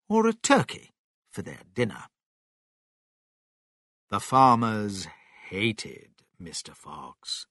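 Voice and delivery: ordinary delivery, nothing marked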